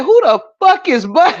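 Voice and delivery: high, giggly retelling falling apart; words collapsing into real laughter; laughing hard. Real, not acted. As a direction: break up laughing while quoting it. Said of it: "I'm laughing so hard".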